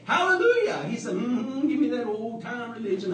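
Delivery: high, joyful hallelujah and humming; rejoicing. Retold or imitated. Abram answering his wife, high and rejoicing. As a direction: bubble over with joy.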